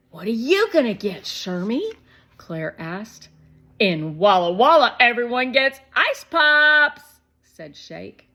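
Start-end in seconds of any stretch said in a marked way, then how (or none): 0.1-1.9 put-on high, louder quick girl question; curious girl. A narrator's reading. Claire asking Shermie his choice, quick girl voice. 3.8-7.2 put-on high, loud and fast kid excitement; excited little boy. A narrator's reading. Shake telling Shermie about the ice cream money, excited.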